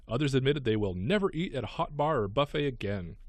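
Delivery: light, lively news-story read. Real, not acted. Radio host reading a gross news item to co-host, news read.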